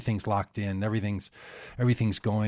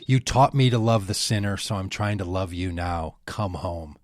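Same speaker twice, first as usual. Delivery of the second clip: tender plea. Retold or imitated. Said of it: "he moves to this part at the end and he says".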